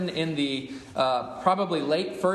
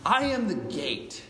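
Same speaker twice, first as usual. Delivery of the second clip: put-on slow, higher-pitched French accent; Jesus in French accent; 4 semitones higher than usual. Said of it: "try to do my best French accent".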